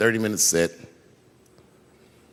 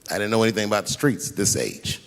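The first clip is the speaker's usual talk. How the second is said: usual speaking voice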